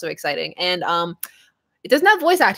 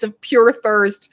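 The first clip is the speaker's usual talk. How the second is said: laughing; 5 dB louder, slower than usual. Real, not acted. Streamer laughing while reading.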